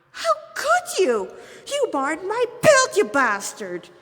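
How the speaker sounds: loud, high furious outrage; stabbed demon lashing out, loud and high; spat in anger. Acted. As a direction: spit the insult at the hunter.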